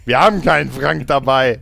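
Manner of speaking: radio reply. Retold or imitated. Other side of radio call.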